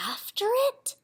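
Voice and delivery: high unsure whisper. Acted. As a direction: whisper it in disbelief. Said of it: "we all whispered".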